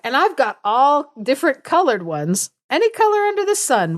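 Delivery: high, fast boastful mama voice; mother bird showing off her many colored babies; proud bragging mother. Retold or imitated. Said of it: "so she's like".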